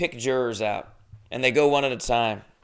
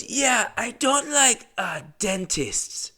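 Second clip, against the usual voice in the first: high, slow put-on Asian accent, much higher; comic impression of a foreign juror's accent; imitating the Asian guy; 11 semitones higher, much slower than usual. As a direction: drag out the dentists line in a mock Asian accent. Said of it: "I'm just gonna do his voice".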